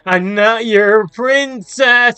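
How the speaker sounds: very high, loud, slow shriek; terrified protest. Acted. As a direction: push them off in horror. Terrified protest, then bro.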